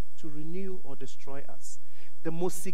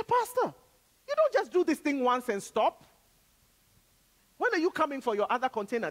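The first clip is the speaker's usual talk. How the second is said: shipping owner voice; 9 semitones higher, 9 dB quieter than usual. Retold or imitated. Voicing the shipping company owner.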